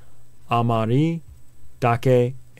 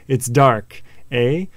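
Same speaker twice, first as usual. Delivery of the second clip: put-on hammy, unconvincing Australian accent; bad Australian accent; slower than usual. Teacher acting out a dake mnemonic, bad Australian accent. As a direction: do a really bad Aussie. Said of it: "with a really bad Australian accent".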